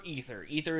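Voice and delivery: "ether" said with a long EE; rejected pronunciation. Shown as a demonstration. Telling co-host what it never is, rejected pronunciation. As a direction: say "ether" as EE-ther, the version being ruled out. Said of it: "never the way you pronounce that word".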